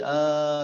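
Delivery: آ stretched into a long alif; drawn-out vowel. Shown as a demonstration. Teacher showing how fatha turns into alif, آ held long. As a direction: hold آ well past a short vowel. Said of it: "فتح جب جیسے ہی پیدا ہوئی".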